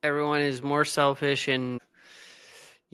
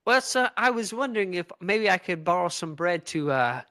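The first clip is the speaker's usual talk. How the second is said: put-on British accent. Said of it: "are you British".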